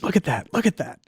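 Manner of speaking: high-pitched excitement without raising volume; imitating excited colleague. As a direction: mimic a colleague's eager urging. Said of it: "because he's so excited".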